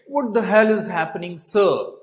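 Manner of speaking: urgent police officer's demand; alarmed officer. Retold or imitated. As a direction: burst in asking what's going on. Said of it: "he said".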